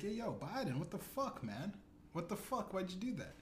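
lightly voiced friend calling Biden out; mock confronting homie. Homie calling out Biden's wink, mock high indignant. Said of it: "He's like".

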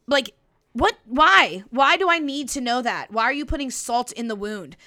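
loud disbelieving why, rising sharply; real indignant outburst at Tom's excuse; outraged. Real, not acted. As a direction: demand an answer, really baffled. Outraged reaction to Tom.

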